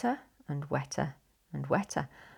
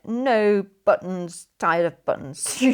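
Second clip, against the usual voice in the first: sulky refusal; 6 dB louder, slower than usual. Acted. Sister grumbles, spills the buttons.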